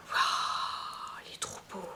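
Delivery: awed whisper. Real, not acted. Swooning over a favourite mascara.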